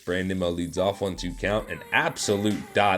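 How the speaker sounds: steady sports commentator call; play-by-play. Acted. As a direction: call the game like a broadcaster.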